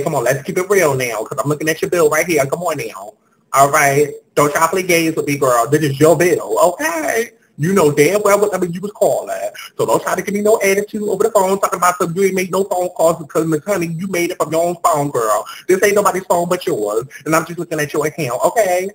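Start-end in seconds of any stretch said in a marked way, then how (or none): 4.3-14.8 mildly raised, sassy telling-off, fast at the end; scolding. Acted. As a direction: read the caller the riot act, not backing down. Agent scolding caller over bill.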